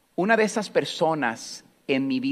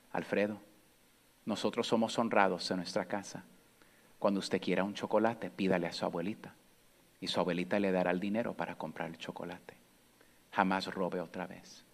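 much softer, lowered, tender scolding; gentle grandma voice; 4 semitones lower, 9 dB quieter than usual. Retold or imitated. Grandmother gently asks her grandson about the theft, soft and tender. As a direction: speak like a frail, loving grandmother.

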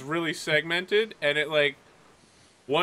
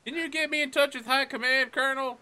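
higher voice, puzzled over the radio; puzzled midshipman; 7 semitones higher than usual. Acted. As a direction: ask on the radio, baffled. Cadet asks on radio.

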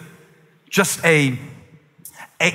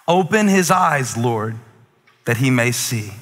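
slow prayer; 3 semitones lower than usual. Acted. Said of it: "This is the prayer that I want us to pray".

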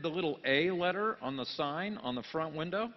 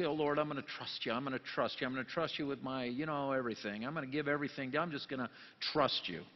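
mock worship prayer; 4 semitones lower, 5 dB quieter than usual. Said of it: "and we say".

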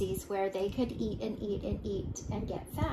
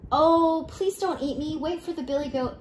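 high plea opening on a loud "oh"; pleading billy goat; 6 semitones higher, 5 dB louder than usual. A narrator's reading. Second goat begs not to be eaten, high pleading. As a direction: beg as a worried goat, pitched up.

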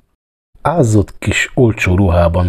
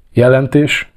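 higher, curt demand; curt growl; 6 semitones higher than usual. A narrator's reading. Police chief demanding the clerk's report, curtly growled. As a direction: demand it like a gruff boss. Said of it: "mordult rá az írnokra".

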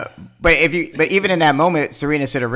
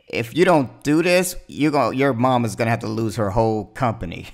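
retold threat; 3 dB louder than usual. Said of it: "she was threatening that".

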